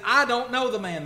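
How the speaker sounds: loud, high, heated outburst; angry denial. Acted. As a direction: snap out the denial in anger. Peter cursing, denying Christ.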